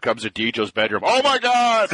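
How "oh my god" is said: mock shocked adjuster. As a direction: play the appalled adjuster walking in. Insurance adjuster sees plastered bedroom.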